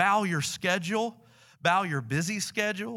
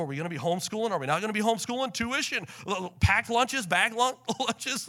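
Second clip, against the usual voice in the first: mock nervous fretting, climbing higher as the list grows; worked-up questions piling up, getting higher; nervous energy; 4 semitones higher, faster than usual. Preacher acting out his family's school worries, increasingly frazzled. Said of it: "like nervous energy".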